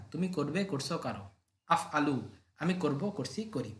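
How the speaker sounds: rhythmic drill chant of verb forms; rote recitation. Acted. Teacher reciting verb forms to students, rhythmic drill chant. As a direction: chant each form so the class can memorise it. Recites conjugation table for memorising.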